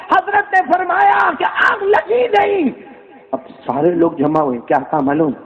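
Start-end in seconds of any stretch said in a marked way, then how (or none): 0.1-2.7 tearful fervour. Acted. Preacher announcing the miracle, tearful fervour. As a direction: let the voice crack with awe.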